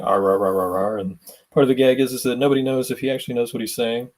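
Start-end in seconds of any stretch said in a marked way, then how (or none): 0.0-1.0 gruff growling rah rah into a radio; mock bear grumbling; bear noises. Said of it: "he's just saying".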